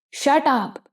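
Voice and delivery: lightly acted furious cry; screaming. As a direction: cut him off in fury. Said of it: "وہ چیخ کر بولی".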